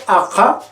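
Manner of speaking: Ajá with the vowel opened wide; open a demo. Shown as a demonstration. Teacher repeats Ajá to show the open vowel. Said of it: "Entonces, cuando digo".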